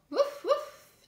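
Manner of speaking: two high, loud woofs; dog barks. Acted. Manny the dog answers a greeting, two high barks. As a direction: bark twice, short and high.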